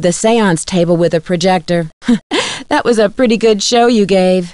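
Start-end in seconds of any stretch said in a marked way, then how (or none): 1.9-2.7 brief, light laugh; a small laugh under the breath; short chuckle. Acted. Scripted amused reaction to séance trick.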